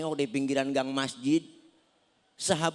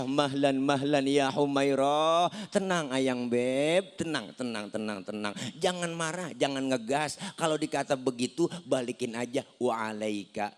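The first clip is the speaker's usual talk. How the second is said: calming; 5 semitones lower than usual. Retold or imitated. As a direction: settle her down gently. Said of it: "Rasulullah nggak marah".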